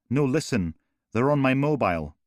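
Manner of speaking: cutting the operator off in fear; frightened insistence. Acted.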